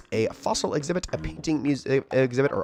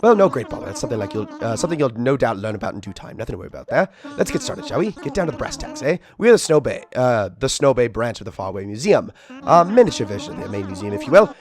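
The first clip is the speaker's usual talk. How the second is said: put-on a fussy, rambling old museum curator; sleepy, fussy Blathers. Curator owl waking up to greet a visitor, fussy and rambling. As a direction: play a flustered night owl who apologises and rambles on. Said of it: "meet our friend Blathers".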